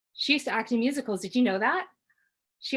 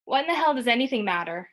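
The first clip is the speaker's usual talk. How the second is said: near tears; 4 semitones higher, 3 dB louder than usual. Acted. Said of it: "Mom's voice is loud and she sounds like she's about to cry".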